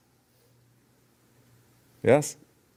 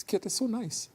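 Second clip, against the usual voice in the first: fond cooing; 12 semitones higher, 5 dB quieter than usual. Pretend. Fond remark about the cat.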